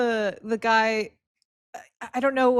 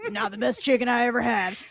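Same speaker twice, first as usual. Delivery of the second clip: Will impression. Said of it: "your Will impression".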